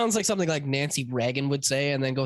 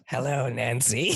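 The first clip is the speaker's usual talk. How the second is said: creepy Hannibal voice; 4 semitones lower, slower than usual. Pretend. Hannibal line parody.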